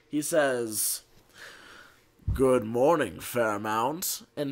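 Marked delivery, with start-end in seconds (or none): 2.3-4.2 low, slow sultry morning greeting. Retold or imitated. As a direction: croon it low and seductive. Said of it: "in his best, most sultry voice".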